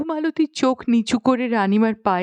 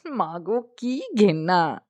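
disgusted; 2 semitones lower than usual. Acted. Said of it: "নাক সিঁটকে".

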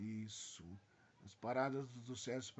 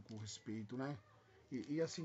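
usual speaking voice

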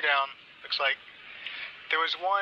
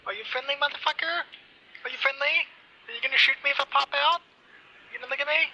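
shouting orders over battle; 11 semitones higher, faster than usual. Acted. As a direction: yell out to strangers across the field. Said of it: "Do you want me to yell at them?".

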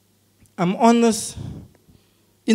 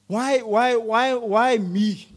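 pleading question; 3 semitones lower, 5 dB quieter, much slower than usual. Retold or imitated. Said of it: "If I ask God".

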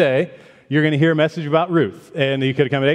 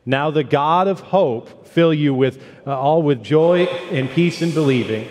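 reading aloud together; slower than usual. Shown as a demonstration. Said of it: "Let's read that out loud together".

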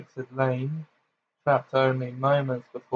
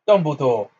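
gasped; 6 dB louder than usual. Acted. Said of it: "gasped Fudge".

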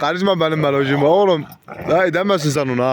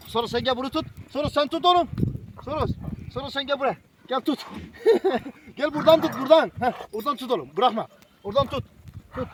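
soft instructions; 9 semitones higher, 7 dB quieter, faster than usual. Real, not acted. Iğne sırasında talimat veriyor.

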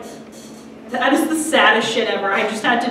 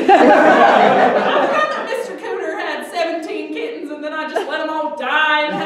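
hoarder lady; 3 semitones higher than usual. Retold or imitated. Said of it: "She'd be like".

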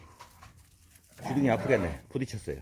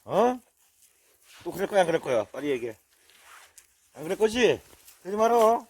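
mild scolding; 5 semitones higher, 4 dB louder than usual. Real, not acted. Scolding a bullying dog.

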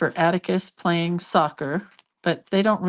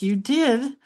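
imitated grandson; 7 semitones higher than usual. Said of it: "He's like".

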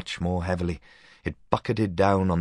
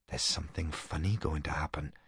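softly whispered; 7 dB quieter than usual. A narrator's reading. Boy whispering to Leslie at the window, hushed. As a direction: breathe it out as a secret. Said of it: "I whispered very softly".

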